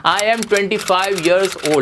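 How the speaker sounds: stretched very slowly, each word apart; slow model phrase. Shown as a demonstration. Teacher modelling a new phrase for students, very slow. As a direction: draw the phrase out for the class. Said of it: "English में भी".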